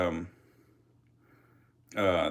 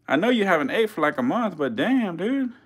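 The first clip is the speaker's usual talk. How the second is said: excited; 8 semitones higher than usual. Real, not acted. Still reacting to hungry snake.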